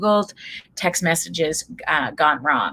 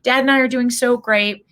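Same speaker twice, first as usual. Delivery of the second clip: sweet mom; 4 semitones higher, 4 dB louder than usual. Retold or imitated. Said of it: "she says".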